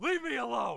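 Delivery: very high, shrill, furious anime character voice. Playing an anime character who lashes out at others: angry anime character voice. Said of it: "You're doing so good, though, with your anger".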